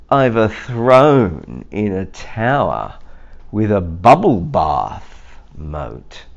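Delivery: boastful goat voice; bragging goat. Acted. Goat bragging about his tower, boastful. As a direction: show off like the proud goat.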